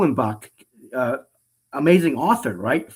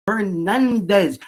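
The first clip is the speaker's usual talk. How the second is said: each syllable slowly drawn out; slow mimicked stadium introduction; ballpark announcer imitation; 3 semitones higher, slower than usual. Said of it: "You focus on each syllable".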